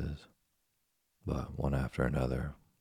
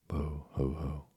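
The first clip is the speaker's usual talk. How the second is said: a hammed-up boo-hoo wail; mock crying; slower than usual. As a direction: cry like a wooden puppet, mock sobbing. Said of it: "began to cry and scream so loudly".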